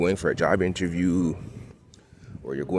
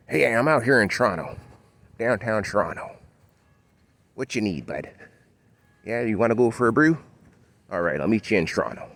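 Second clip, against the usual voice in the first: put-on broad Toronto accent; 5 semitones higher than usual. Local inviting a bud for a brew, exaggerated Toronto accent. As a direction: put on a broad "Tronno" accent, calling out to a buddy. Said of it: "You have that accent".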